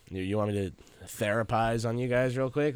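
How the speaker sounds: ordinary talk, nothing marked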